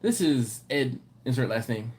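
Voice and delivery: lightly voiced halting voicemail; imitating Ed's voicemail. Mimicking manager Ed's voicemail to the crew, mild. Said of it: "it went like this".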